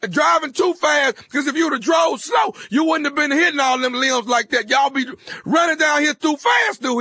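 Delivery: a hammed-up scolding, pushing hard on the words; mock angry rant. Prank caller scolding the driver about the tree, mock angry. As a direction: fake fury at a reckless driver.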